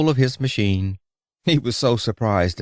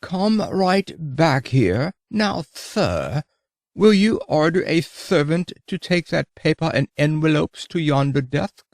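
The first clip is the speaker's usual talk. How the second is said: yelled; 6 semitones higher than usual. Retold or imitated. Dandy calling the clerk back, pompous higher mock yell. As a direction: bark it like an offended dandy. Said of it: "and yelled".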